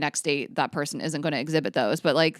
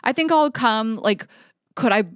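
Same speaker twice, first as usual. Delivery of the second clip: a higher, louder retold boyfriend, slowing at the end; mock-casual boyfriend voice, higher and louder; imitating the boyfriend; 4 semitones higher, 5 dB louder, slower than usual. Boyfriend casually asking to bring a friend, imitated higher and louder. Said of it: "he was like".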